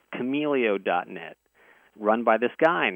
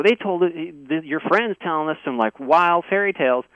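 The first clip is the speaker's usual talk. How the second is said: higher, louder imitated Southern accent; 5 semitones higher, 4 dB louder than usual. Skeptical Southerner doubting a stranger's wild story, imitated Southern accent. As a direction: lightly mimic a skeptical Southern good old boy. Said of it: "kinda southern accent".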